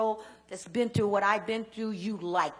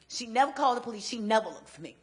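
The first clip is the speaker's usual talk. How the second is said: louder, stressed never; rising hurt, louder each time; emphatic repetition; 3 semitones higher, 6 dB louder than usual. Real, not acted. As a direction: hammer home that she never looked. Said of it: "repeats grandmother never looked".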